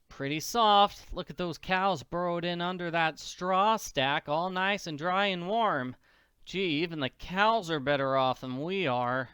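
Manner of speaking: a hungry orphan refusing to turn back; little orphan girl Annie. Acted.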